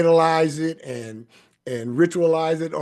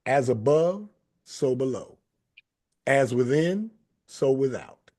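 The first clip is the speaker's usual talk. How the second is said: closing blessing. Acted. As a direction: bless them as you close the show. Closing benediction.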